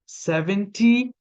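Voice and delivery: "seventy" said slowly; slow model. Shown as a demonstration. Teacher modelling a number for learners. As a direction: draw out "seventy".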